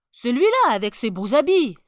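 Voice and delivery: loud, emphatic pointing-out; excited father. A narrator's reading. Father showing his boy the finely dressed emperor, excited. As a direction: answer the child at full voice.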